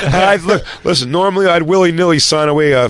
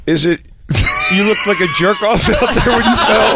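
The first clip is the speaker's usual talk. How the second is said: mock shout; 5 semitones higher than usual. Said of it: "He goes".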